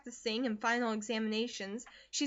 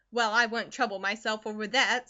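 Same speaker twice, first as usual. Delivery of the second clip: sniffing; 6 dB louder than usual. Acted. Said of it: "sniffed Missus Comstock".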